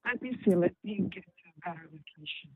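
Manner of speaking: caller's voice dropping in and out; faint, choppy phone connection; bad phone line. Real, not acted. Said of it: "your voice is going in and out".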